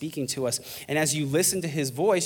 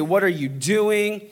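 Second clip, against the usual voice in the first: mildly raised, slow, emphatic question; God speaking loud; 3 semitones higher, slower than usual. Acted. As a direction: confront them with a slow, firm question. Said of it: "God, he can speak loud".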